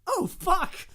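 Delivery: very high, loud yelp; alarmed swearing. Acted. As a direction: yell the curse in acted alarm.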